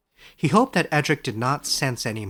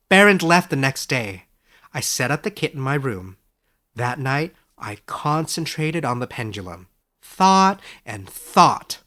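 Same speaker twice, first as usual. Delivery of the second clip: Edric's voice; 5 dB louder than usual. Acted. Edric tells of the pendulum.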